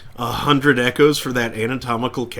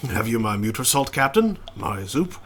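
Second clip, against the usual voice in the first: French chef accent. Shown as a demonstration. Player redoing the chef's line with French accent. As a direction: lean a little more into the French. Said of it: "I am starting to give him a French accent".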